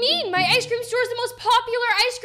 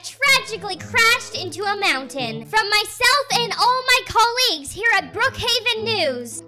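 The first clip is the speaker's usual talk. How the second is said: TV news anchor. Acted. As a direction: announce it like an evening anchor. TV news report in skit.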